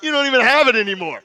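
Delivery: loud, high preacher's outburst; hollered mock exasperation; comic rant. Real, not acted.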